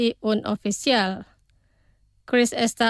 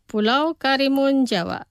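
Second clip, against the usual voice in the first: pronunciación despacio. Shown as a demonstration. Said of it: "Los pronunciaré despacio". (pronunciado despacio, para repetir)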